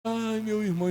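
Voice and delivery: mock lament. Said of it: "vai lá e chorar".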